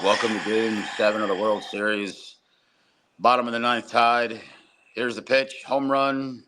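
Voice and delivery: mock bored announcer. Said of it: "they're so fucking boring".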